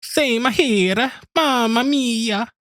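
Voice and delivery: put-on high, drawn-out Italian accent. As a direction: stretch the mamma mia. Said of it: "Can you do an Italian accent?".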